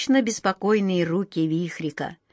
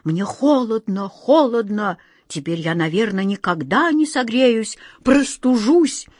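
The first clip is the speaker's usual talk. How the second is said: shivering whining king; 2 semitones higher than usual. Retold or imitated. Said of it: "король ещё твердил на лету".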